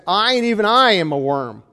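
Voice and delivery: both "I"s stressed, "even I" leaned on; emphatic I. Shown as a demonstration. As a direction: press on each "I" in "I and even I". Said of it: "you could say this".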